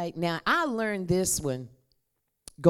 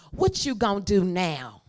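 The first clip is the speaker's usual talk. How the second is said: call to repeat; 5 dB louder than usual. Shown as a demonstration. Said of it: "y'all have to repeat after me".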